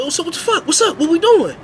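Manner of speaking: high, loud fight-ready shout; loud challenge. Retold or imitated. Narrator ready to fight Jay, high loud shout.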